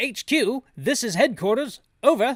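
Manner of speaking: put-on loud, high-pitched British accent. Reading game dialogue aloud, voicing the character Barry in a British voice. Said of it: "Gotta get my British voice back up".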